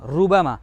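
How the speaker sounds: रुबमा with a light, unthickened R; wrong thin R. Shown as a demonstration. Teacher showing pupils the wrong sound, thin R. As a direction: give रुबमा a thin rolled R as the faulty version. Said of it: "ये गलत अल्फाज".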